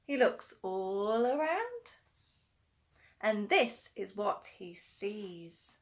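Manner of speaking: put-on sing-song read-aloud to a child; children's story reading. A narrator's reading. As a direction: read it like a bedtime picture book. Reading a picture book aloud.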